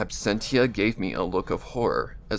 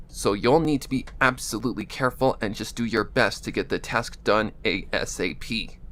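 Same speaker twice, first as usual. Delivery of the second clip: Absentia voice. Acted. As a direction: speak a little through the nose. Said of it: "the Absentia voice".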